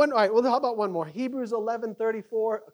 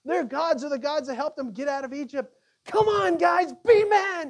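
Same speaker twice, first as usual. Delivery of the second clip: rallying cry; 7 semitones higher, 6 dB louder than usual. Acted. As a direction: rouse the men to fight. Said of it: "they're just rallying".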